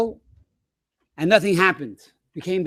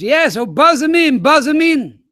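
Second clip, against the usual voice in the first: sleepy hurried reply; 6 semitones higher, 5 dB louder than usual. Retold or imitated. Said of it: "So Mitch says".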